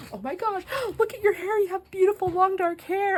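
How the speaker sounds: high, breathless gushing with a gasp; squealing admiration; gushing compliment. Retold or imitated. Friend gushing over Denise's hair.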